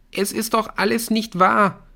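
high, agitated protest; crying out. A narrator's reading. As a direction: call it out in disbelief. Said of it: "rief Erik".

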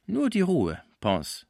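high-pitched exclamation, falling on the name; calling out. A narrator's reading. Schmucke calming his sick friend Pons, calling out. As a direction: call it high, then let it drop. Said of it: "rief Schmucke".

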